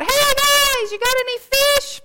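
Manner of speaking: yelling out. Acted. Stranger on shore calling out to the fishermen, loud yell. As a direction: shout it from the shore to the boat. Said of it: "somebody yells out".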